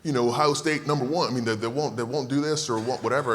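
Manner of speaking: teasing imitation of studio colleagues complaining; mocking cohosts. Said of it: "They're like".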